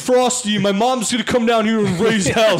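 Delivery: high whiny brat demanding a Frosty; shrill spoiled kid tantrum voice; bratty kid yelling. Retold or imitated. Kid yelling about his Frosty.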